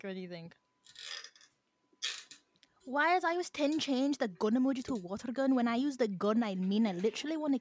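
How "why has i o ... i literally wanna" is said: amateur stab at a Scottish accent; bad Scottish accent. Shown as a demonstration. Host repeats the slang sentence for guessers, bad Scottish accent. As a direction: put on a rough Scottish accent. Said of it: "Such a bad Scottish accent".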